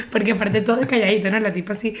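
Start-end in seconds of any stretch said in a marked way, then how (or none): none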